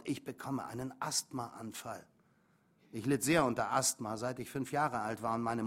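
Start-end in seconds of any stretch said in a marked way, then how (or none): 0.0-2.1 slow, hushed and softer; loud whisper. A narrator's reading. Boy alone in his room as an attack starts, hushed and slow. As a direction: push the panic out under your breath. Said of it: "flüsterte ich laut".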